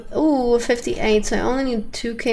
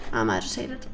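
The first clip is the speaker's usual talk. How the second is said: mock agitated; 12 semitones lower, 8 dB quieter than usual. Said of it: "I'm getting agitated".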